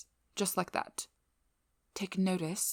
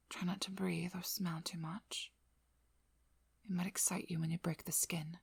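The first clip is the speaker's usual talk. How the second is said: gentle coaching. Acted. Coaching vampire through a careful bite.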